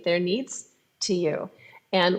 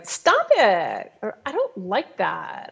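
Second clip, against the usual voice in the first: critical tone; slower than usual. Retold or imitated. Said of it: "using that kind of voice".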